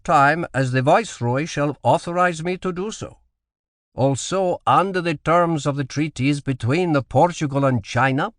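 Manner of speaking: put-on firm but regretful in a Portuguese accent; Portuguese governor refusing the admiral; strong foreign accent. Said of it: "in a strong accent".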